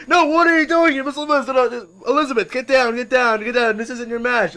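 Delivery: high, loud, flustered protest; scolding referee. Acted. Referee telling Miss Elizabeth to get off the rope, scolding. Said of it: "and the referee will be like".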